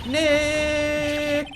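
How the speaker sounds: sharp high shout; shouting a name. Acted. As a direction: yell his name to stop him. Partner yells name at him.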